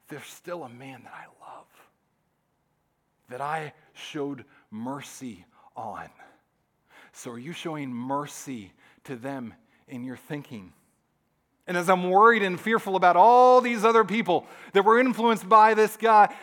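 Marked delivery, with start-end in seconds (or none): 0.1-10.7 quiet, understated compassion; gentle divine reply. Acted. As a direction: let it land softly, with pauses. God's gentle reply voiced.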